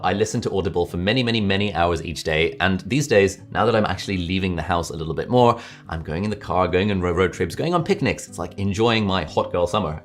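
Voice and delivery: engaging, enthusiastic delivery with an audible smile; speaking through a smile. Shown as a demonstration. Presenter showing viewers the smile technique, speaking through a smile. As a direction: smile as you talk, keep it engaging. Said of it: "I'm gonna have a smile on my face".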